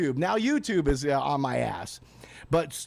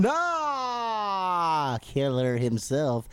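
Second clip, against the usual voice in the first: dramatic self-intro; 2 semitones lower, much slower than usual. Acted. Radio host self-hype.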